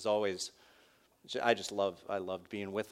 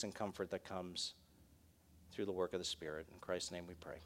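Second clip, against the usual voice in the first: closing prayer. Real, not acted. Pastor closing his sermon by praying to the Lord for the congregation, earnest prayer. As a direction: lead the congregation in sincere prayer.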